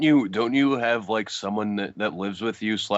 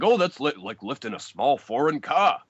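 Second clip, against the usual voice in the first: lightly mimicked commentator; 4 semitones higher, 4 dB louder than usual. Co-host retelling the commentator's line, lightly mimicked. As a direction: stretch it out, a hint of an incredulous announcer.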